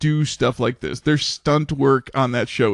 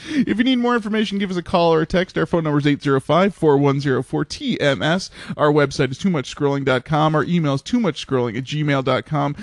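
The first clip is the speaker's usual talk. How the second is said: fast outro read; faster than usual. Acted.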